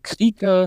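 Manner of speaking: "Kriege" with an added final -e syllable, German style. Shown as a demonstration. A linguist showing a German-syllable form of the word. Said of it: "integrate it more into German syllable structure".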